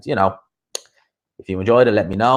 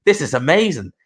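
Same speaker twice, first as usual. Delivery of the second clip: higher-pitched mock awe with a laugh; mock amazed; 5 semitones higher than usual. Imitating country girls impressed by Dublin lads, in mock amazement. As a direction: imitate someone easily wowed, laughing. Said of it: "country girls see that and they're like".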